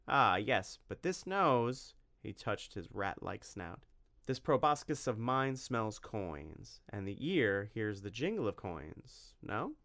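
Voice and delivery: slow, sly merchant drawl, lightly voiced; a hint of a greasy shopkeeper angling for coins; sly weaselly cobbler. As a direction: savour each word like a crafty haggler. Weaselly cobbler slyly bargaining.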